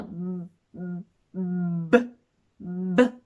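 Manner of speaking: lips shut, then burst out ブ low and short; explosive B. Shown as a demonstration. Teacher showing closed-lip breath drill, explosive ブ. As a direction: pop ブ hard from closed lips. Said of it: "この口を閉じたまま".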